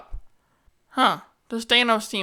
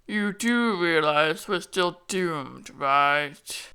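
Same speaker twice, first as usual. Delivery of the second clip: deadpan villain; much slower than usual. Pretend. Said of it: "plays out like this".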